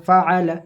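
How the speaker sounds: "ফাআলা" with a clear throaty ain; correct ain. Shown as a demonstration. Teacher drilling the ain in "ফাআলা". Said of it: "আইনটাকে সঠিকভাবে উচ্চারণ করতে হবে".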